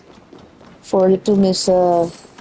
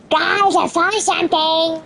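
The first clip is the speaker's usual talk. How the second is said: excited NPC voice; 7 semitones higher than usual. Retold or imitated.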